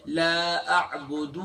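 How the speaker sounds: the final دو of اعبد wrongly lengthened; the wrong take with a long final vowel; stretched dal. Shown as a demonstration. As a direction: drag out the دال at the end. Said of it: "دال کو ہم کھینچ دیتے ہیں".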